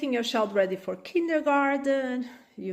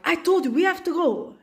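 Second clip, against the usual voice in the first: raised voice; 5 semitones higher than usual. Acted. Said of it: "raise your voice also".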